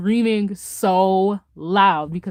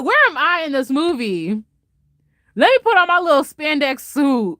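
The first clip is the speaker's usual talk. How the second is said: retold excitement; 5 semitones higher than usual. Retells excited outburst at the film.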